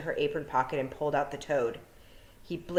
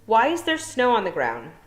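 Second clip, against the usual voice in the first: put-on urgent girl; 6 semitones higher, 7 dB louder than usual. Tiffany asks urgently.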